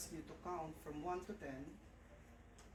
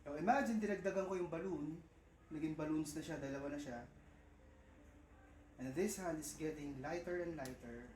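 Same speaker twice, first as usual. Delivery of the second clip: hypnotist guidance. Acted. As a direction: lead them through the imagery. Hypnotist guides the imagery.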